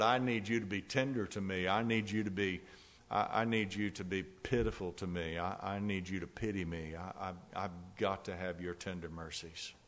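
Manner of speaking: pleading prayer. Real, not acted. Preacher begs the Lord for tender mercies, pleading prayer. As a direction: plead in repeated phrases, gradually dropping in pitch and volume.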